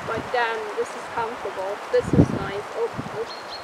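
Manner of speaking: muffled inside mascot head; speaking with face fully covered; through a costume head. Real, not acted. Seen 5: Full costume head worn over face throughout; references show it held.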